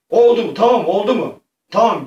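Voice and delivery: high, loud, excited checking; eager triumph. Pretend. Player asking the spirit if the task is done, in eager triumph. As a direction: ask eagerly, still keyed up from the win. Breathless check after succeeding.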